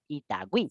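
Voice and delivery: Itagüí with the ü said as a clear "wi"; sounding out the ü. Shown as a demonstration. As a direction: demo the diéresis in Itagüí. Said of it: "tienes que pronunciarlo como wi".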